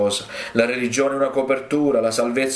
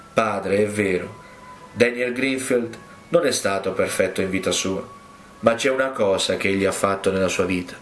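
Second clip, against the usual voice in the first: sweetest voice. Acted. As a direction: speak gently, lightly voicing Jesus. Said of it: "la voce più dolce che io abbia mai udito".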